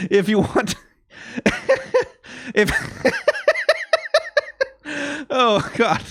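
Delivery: real laughter breaking up the words; laughing. Real, not acted. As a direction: try to get the words out through giggles. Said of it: "I'm laughing 'cause I know".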